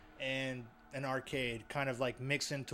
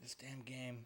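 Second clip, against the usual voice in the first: muttered curse; 13 dB quieter than usual. Real, not acted. Frustrated at scary game.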